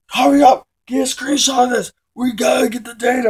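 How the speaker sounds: high, loud, rushed eager scientist voice; a father thrilled by the data, not his son; eager scientist dad. Retold or imitated. Dad and coworker voiced, ignoring Victor.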